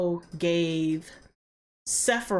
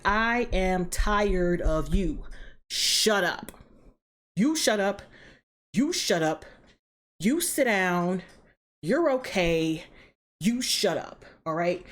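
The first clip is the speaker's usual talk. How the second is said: fed-up mock telling-off; slow, spaced-out commands as an exasperated referee; acted scolding; slower than usual. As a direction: act out silencing squabblers one by one. Gaia acted scolding squabbling gods.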